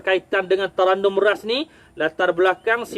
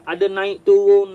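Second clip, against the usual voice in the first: rising then falling pitch; 4 dB louder than usual. Shown as a demonstration. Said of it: "macam naik bukit, turun bukit".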